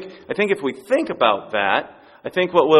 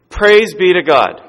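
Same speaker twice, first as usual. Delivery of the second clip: louder, slow praising call; retold praise shout; 5 dB louder, slower than usual. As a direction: call the praise out slowly and loud. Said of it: "he starts screaming out loud".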